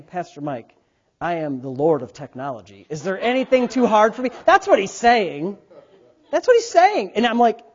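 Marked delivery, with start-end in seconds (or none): 0.0-4.3 mock lordly Scott.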